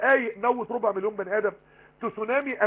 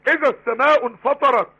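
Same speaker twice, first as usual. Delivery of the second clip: raised Quran recitation; 4 semitones higher, 7 dB louder than usual. Acted. Opens verse explanation with recitation.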